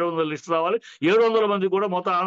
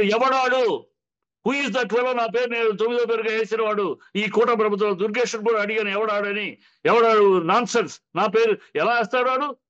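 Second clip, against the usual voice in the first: retold indignation. Guest voicing a star slighted over his ninth-place billing, indignant. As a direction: act out an offended star demanding answers. Acting out an outraged star's demand.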